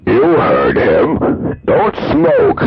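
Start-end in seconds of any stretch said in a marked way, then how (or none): 1.6-2.6 squeaky high voice. Acted. High echoing repeat.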